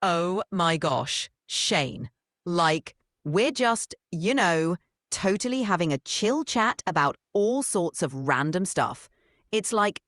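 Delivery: put-on bubbly valley girl, full of "like"; breezy, upbeat valley girl chatter.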